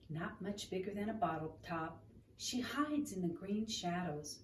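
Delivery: gentle read-aloud storytelling; story narration. Acted. Reading picture book aloud.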